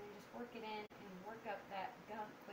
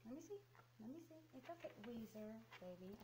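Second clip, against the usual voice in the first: cooing to the dog; 9 dB quieter than usual. Real, not acted. Coaxing dog during ear cleaning.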